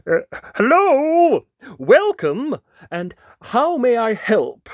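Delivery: high, loud nervous greeting; yelping. Acted. Wolf greeting the giant, in a yelp. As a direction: squeak out an over-eager welcome. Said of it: "his voice a small yelp".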